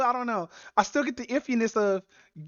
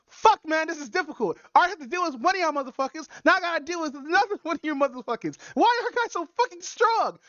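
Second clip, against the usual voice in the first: whiny complaining; 3 semitones higher than usual. Retold or imitated. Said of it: "they're just fucking complaining".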